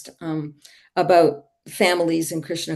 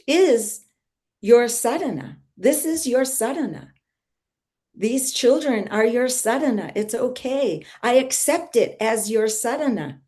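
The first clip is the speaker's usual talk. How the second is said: higher, lightly voiced divine reassurance; voice of Krishna; 4 semitones higher than usual. Krishna speaking in a mother's heart, lightly voiced reassurance. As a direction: gently imitate a god accepting her. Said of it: "heard Krishna in my heart".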